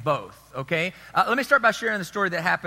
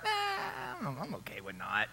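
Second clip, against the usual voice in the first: mock dismissive churchgoer; 4 semitones higher, 11 dB quieter, slower than usual. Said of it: "Nobody's gonna be like".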